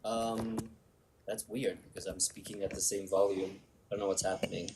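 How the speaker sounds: faint and distant from the microphone; speaking away from the mic; far from mic. Real, not acted. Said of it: "like you moved away from the phone".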